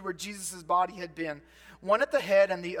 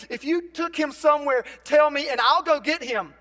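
strong determined; 5 semitones higher, 6 dB louder than usual. Retold or imitated. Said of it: "She's strong".

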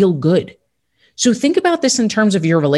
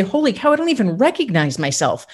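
amazed future self. Retold or imitated. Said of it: "look back ... and say".

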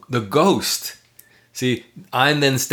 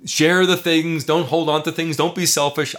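inner voice; 4 semitones higher than usual. Retold or imitated. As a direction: nag like an inner critic. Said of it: "what the ghost says".

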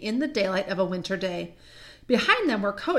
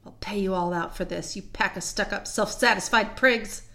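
understated vengeful grumble; resentful aside. Acted. Edmund says to himself he'll get even, resentful. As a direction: nurse a grudge under the words, slowing at the end. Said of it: "was saying to himself".

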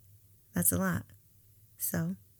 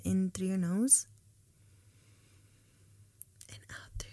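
guided meditation. Acted. Leads a breathing meditation.

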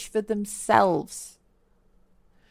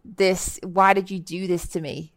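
blaming whine; 4 dB louder than usual. Retold or imitated. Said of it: "kind of energy".

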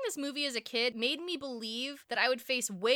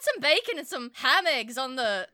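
louder hammed-up Irish mother; mock Irish mom; 6 dB louder than usual. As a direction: dish it out like a fussing Irish mum. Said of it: "his mom has gone full Irish".

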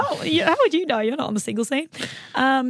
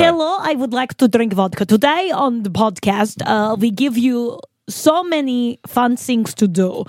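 mock Russian accent; 2 semitones higher than usual. Cohost asks what's on the show in a Russian accent. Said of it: "I can do Russian".

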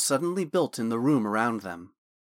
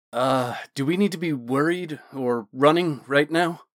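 lighthearted; 2 semitones higher than usual. Acted. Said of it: "Thorn asked, a bit lightheartedly".

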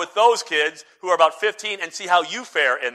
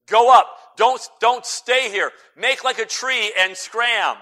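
put-on taunting kids; 4 semitones higher, 4 dB louder, slower than usual. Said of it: "They go out of the city and say".

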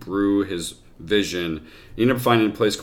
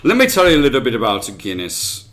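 fast, lightly put-on Irish lilt; host unintentionally going Irish; Irish accent; faster than usual. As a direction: slip into a storyteller's Irish brogue. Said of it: "That was Irish accent again".

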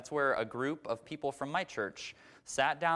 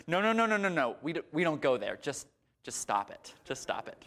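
cutting her off; 3 semitones higher than usual. Retold or imitated. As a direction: shut her down, then drop away. Therapist cuts her off.

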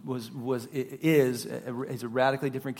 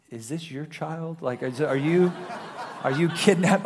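laughing retold question; 4 dB louder than usual. Employee questions him, he laughs.

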